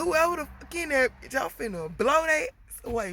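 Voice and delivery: high, loud thug threat; threatening shout. Retold or imitated. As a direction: bark a threat through the door. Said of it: "He was like".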